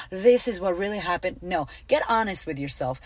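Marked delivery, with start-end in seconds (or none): 0.1-1.4 mocking quote. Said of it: "some bullshit like".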